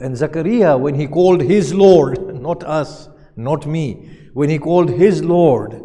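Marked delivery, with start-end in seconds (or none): 0.8-2.3 loud, pointed "his Lord"; "his Lord" pushed out louder than usual; stress on "his Lord". Shown as a demonstration. 4.3-5.7 "his" hit hard and loud; emphatic "his", set against others; stress on "his". Shown as a demonstration. Repeats after "not us, not me.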